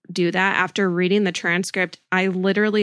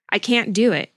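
mild distress; 3 semitones higher, 4 dB louder than usual. Acted. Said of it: "She starts crying".

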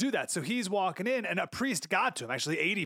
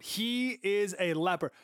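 slow emphatic verdict; 5 semitones higher, slower than usual. Shown as a demonstration. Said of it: "That's like his gravestone".

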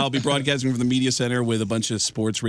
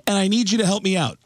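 Sam Kinison impression; 9 semitones higher than usual. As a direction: play Kinison asking a favour. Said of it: "it's Sam Kinison".

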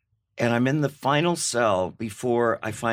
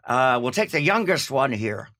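put-on Irish accent; 4 semitones higher, 3 dB louder than usual. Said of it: "That's my English, Irish accent".

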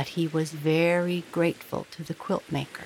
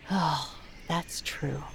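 soft, slow resigned sigh; 2 semitones lower, 4 dB quieter, slower than usual. Acted. King conceding the woman's point, softly sighing. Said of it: "the king sighed".

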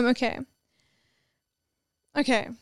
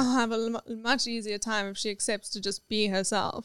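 put-on sarcastic old man voice; 2 semitones lower, 7 dB quieter than usual. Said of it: "says it in a sarcastic voice".

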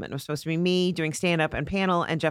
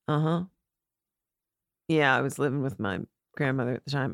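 lightly imitated low-key talker; athlete's low drawn-out talk; 5 semitones lower, 3 dB quieter than usual. Athlete chatting in an interview, lightly imitated low delivery. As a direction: drop the pitch a little and understate it. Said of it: "he literally talks like this".

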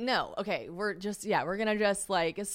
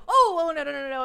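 high, loud, rapid-fire protest; acted panic; 9 semitones higher, 9 dB louder than usual. Storyteller re-enacting stopping her date's video, mock panic. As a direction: blurt it out to stop him, hammed-up alarm.

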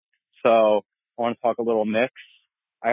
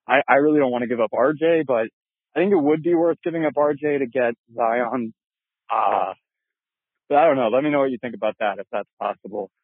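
out of breath. Real, not acted. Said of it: "Sorry, I sound a little out of breath. I'm on a little night run here".

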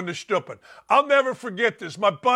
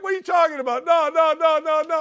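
high, squeaky put-on voice of a couple denying it; mock denial; 9 semitones higher than usual. Dan mimicking the caught couple squealing no in a high put-on voice. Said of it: "They're like".

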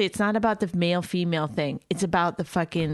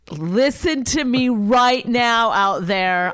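calling out; 3 semitones higher, 6 dB louder, slower than usual. Real, not acted. Addressing the listeners directly.

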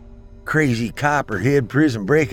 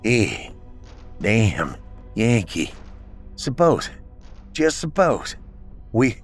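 slurred from a blow to the face; slurring; 4 semitones higher than usual. Acted. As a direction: slur the words, hurt and winded. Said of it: "slurring his words from a hit on the face".

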